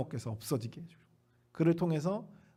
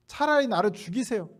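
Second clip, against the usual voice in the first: stubborn plea; 4 semitones higher, 3 dB louder than usual. Retold or imitated. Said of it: "막무가내로 하나님께 따지는 거죠".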